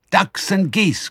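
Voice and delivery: put-on high eager young-fox voices; excited small foxes' cry. A narrator's reading. Small foxes hungry for the farm's birds, excited cry. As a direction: cry it out high, licking your lips. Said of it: "cried the small foxes".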